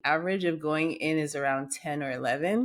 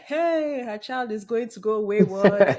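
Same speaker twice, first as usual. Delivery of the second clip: worried mother voice; 4 semitones higher, 6 dB louder than usual. Retold or imitated.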